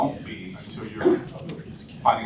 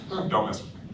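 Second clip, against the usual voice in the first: don't-mess-with-me tone; 2 semitones lower than usual. Shown as a demonstration. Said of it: "That's my tone".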